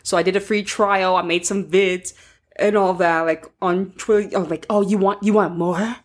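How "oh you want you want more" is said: sexy voice. Retold or imitated. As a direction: purr it like a seductive tease. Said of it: "Not the sexy voice".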